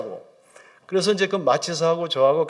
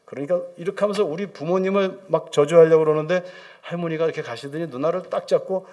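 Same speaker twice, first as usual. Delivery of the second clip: ordinary delivery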